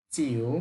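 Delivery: চিউ dipping low, then rising; Chinese third tone. Shown as a demonstration. Teacher showing learners the broken third tone. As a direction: break চিউ with a dip down and back up. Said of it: "third tone ভেঙে বলতে হবে".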